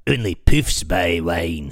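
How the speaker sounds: low, slow sneering heckler voice; slow low jeer at the wine buyer; mocking heckler. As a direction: drag it out low like a sneering thug. Voicing the heckler.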